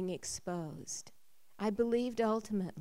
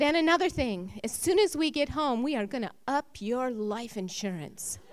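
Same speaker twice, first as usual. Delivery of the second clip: higher, louder, half-laughing ultimatum; escalating demand; 3 semitones higher, 5 dB louder than usual. Retold or imitated. Wife making dramatic demands of her husband, mock fierce. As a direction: push the next demand with a grin.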